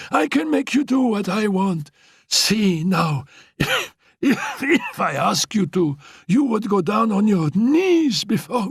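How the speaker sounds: high, playful coaxing with laughs; teasing invalid girl. Acted. Annette ordering Félicie to kneel, high coaxing taunts. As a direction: coax and mock, sweetly commanding.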